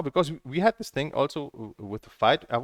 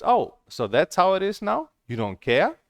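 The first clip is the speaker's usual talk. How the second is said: retold furious rant. Retelling what she told the moderator, a furious retort. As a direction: replay the furious comeback, swinging between shouts and mutters. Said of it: "like, furious".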